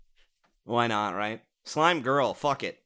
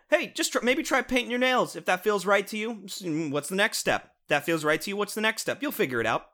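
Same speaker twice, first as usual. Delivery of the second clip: high, breezy chill guy; laid-back mentor voice; 6 semitones higher than usual. Retold or imitated. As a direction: pitch it up and keep it easy. Imitating the show's advice again.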